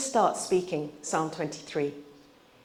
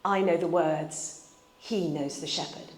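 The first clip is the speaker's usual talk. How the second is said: wry smile; 5 semitones lower, 7 dB quieter than usual. Retold or imitated. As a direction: let the punchline land quietly, with a smile. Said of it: "with a very wry smile".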